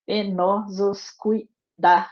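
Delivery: "Penosos cuidados" read slowly as a whole line with a fall on "cuidados"; reading the verse. Shown as a demonstration. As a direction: say "Penosos cuidados" as one slow verse, landing on "cuidados". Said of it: "se a gente conta aqui". ("Penosos cuidados" lido como verso inteiro, devagar, caindo em "cuidados")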